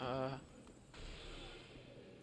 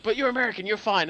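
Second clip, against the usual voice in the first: mock reassuring locals; 6 semitones higher, 9 dB louder than usual. Mock quote of Belgians.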